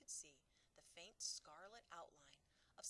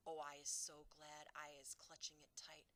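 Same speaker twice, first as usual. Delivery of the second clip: louder scolding cry; 4 dB louder than usual. Acted. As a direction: scold the beast in the jar. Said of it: "he cried".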